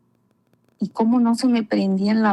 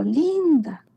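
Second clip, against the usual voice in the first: retold call; 5 semitones higher than usual. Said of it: "escuché una voz grande que gritó".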